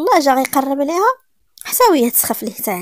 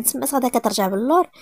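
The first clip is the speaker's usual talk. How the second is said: ordinary delivery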